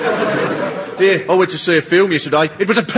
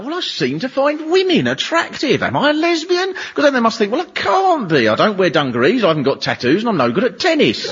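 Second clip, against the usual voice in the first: mock worried girl; 4 semitones higher than usual. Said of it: "girls who start to think".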